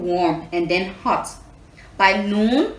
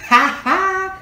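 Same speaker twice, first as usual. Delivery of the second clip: laughing; 11 semitones higher, 6 dB louder than usual. Real, not acted. Teller laughs.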